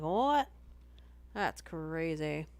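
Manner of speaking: imitating his own shocked reaction; mock disbelief. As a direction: act floored by the price. Reacting to four ninety-nine memberships.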